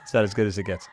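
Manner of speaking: a light Jack Nicholson voice, low and soft; lightly voiced Jack Nicholson; Nicholson impression. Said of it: "this is my best Nicholson impression".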